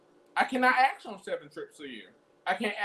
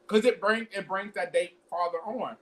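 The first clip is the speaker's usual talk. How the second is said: talking with a retainer in; words around a retainer; wearing a retainer. Real, not acted. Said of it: "I have my retainer in".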